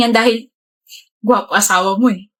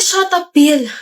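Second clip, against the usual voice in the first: angry shout; 4 semitones higher, much slower than usual. Acted. Stressed student snaps at her boyfriend, angry shout. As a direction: shut him down hard. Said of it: "you don't have to shout".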